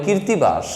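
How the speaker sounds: কীর্তিবাস with an r sounded before the t; common mispronunciation. Shown as a demonstration. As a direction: say কীর্তিবাস as kir-ti-bash. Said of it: "আসলে কীর্তিবাস না".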